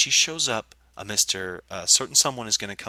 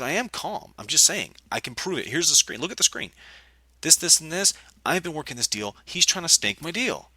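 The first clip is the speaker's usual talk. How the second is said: raised-pitch, insistent self-defence; defensive protest; 5 semitones higher than usual. Retold or imitated. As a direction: retell yourself arguing your case, pitch up. Retold argument, defending himself.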